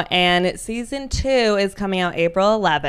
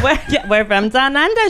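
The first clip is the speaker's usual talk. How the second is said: mock Australian accent; 3 semitones higher than usual. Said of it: "We're, we're Australian today".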